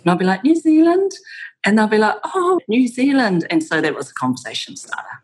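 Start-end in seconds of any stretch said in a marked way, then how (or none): 0.4-1.1 high, loud upturn on New Zealand; rising answer. Retold or imitated. Her retold answer to question. 2.2-3.5 drawn-out high "oh", falling away; impressed reaction. Retold or imitated. Listeners' retold delighted reaction.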